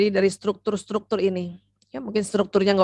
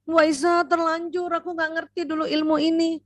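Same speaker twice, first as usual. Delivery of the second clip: regretful; 7 semitones higher than usual. Shown as a demonstration. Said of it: "regretful mother realizing".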